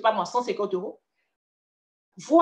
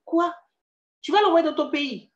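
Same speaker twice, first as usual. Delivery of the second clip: higher-pitched incredulous question; retold astonishment; 7 semitones higher than usual. Seller to buyer shipping a bed home, retold astonishment. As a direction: replay your disbelief, pitch jumping up. Reacting to the woman's shipping plan.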